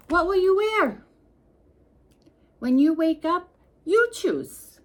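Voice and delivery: high, loud and playful; bright high-pitched teasing ask; excited high question. Acted. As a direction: pitch it up high to delight a child. Playful question to child reader.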